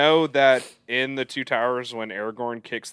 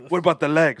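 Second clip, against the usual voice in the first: orc voice; 4 semitones higher, 6 dB louder, faster than usual. Acted. Continuing orc quote.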